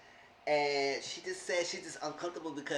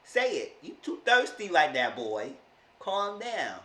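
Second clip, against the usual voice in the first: say it out loud; 2 semitones higher, 6 dB louder than usual. Shown as a demonstration. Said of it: "So you say he's too thirsty?".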